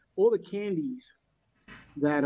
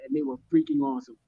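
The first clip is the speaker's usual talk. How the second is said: excited; 9 semitones higher, faster than usual. Real, not acted. Enthusing about the candy.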